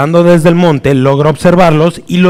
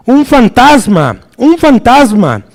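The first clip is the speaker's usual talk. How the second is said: drawn-out, high fearful cry of ghost; frightened cry; 7 semitones higher than usual. A narrator's reading. Disciples in the boat see a ghost, terrified cry. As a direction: cry out slowly in terror, pitched high. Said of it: "Llenos de miedo, gritaron".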